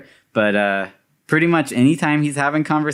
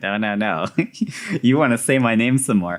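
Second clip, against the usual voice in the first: mocking, laughing. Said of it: "He's like".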